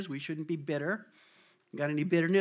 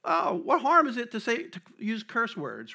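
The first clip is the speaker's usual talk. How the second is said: mock casual Christian; 5 semitones higher than usual. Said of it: "I've heard Christians say".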